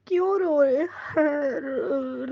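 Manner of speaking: quoting through real sobs; the tears catch the words mid-quote; sobbing while repeating the aunt; crying. Real, not acted. Retelling aunt's words while crying.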